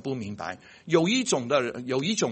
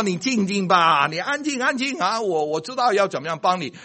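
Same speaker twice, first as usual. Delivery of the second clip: higher, hushing reassurance; a lightly voiced doctor saying be still; calming doctor; 4 semitones higher than usual. Doctor hushing a panicked patient, mildly.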